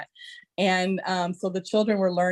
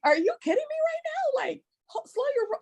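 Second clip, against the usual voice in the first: mock exasperation.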